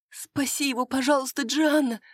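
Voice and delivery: high desperate begging; pleading. Acted. Maria begs Джианна to save her husband, high desperate plea. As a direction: beg her as if his life hangs on it. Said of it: "взмолилась она".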